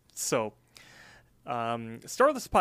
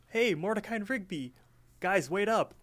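higher-pitched imitation of a friend calling; 8 semitones higher than usual. Margaret hails Mordecai and Rigby from off screen, calling out. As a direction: imitate someone hailing friends from off.

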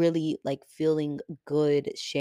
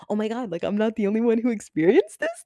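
excited; 6 semitones higher, 6 dB louder, faster than usual. Acted. Acted reaction, finding shared experience.

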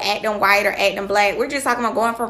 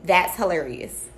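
slow, lower canned reaction; measured workplace approval; go-to work reaction; 4 semitones lower, 4 dB quieter, slower than usual. Acted. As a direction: deliver a stock polite response. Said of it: "my favorite go-to is".

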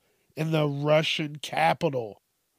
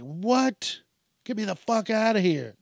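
mock panic; 6 semitones higher than usual. Panicking as the robot attacks.

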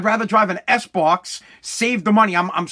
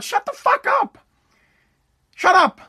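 angry outburst. Real, not acted. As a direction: yell it down at them, fed up. Ranting at birthday complainers.

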